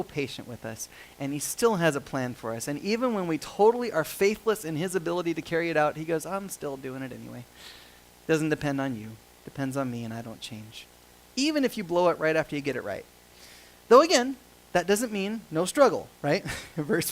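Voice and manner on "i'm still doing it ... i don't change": softer, low-key promise; steady reassurance. Acted. God assures the faithless his plan stands, quiet reassurance. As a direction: state it quietly, as settled fact. God's patient assurance, voiced.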